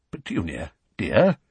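hesitant, questioning endearment; timid. Acted. Uncle approaching his silent wife, timidly. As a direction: test the water carefully, lifting at the end. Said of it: "said Uncle Vernon timidly".

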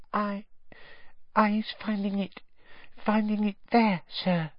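high, hesitant, lightly hushed elf; timid elf voice. A narrator's reading. Elf answers Mr Weasley timidly about the wand. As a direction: stammer it out fearfully. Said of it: "she whispered".

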